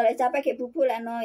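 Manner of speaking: ordinary delivery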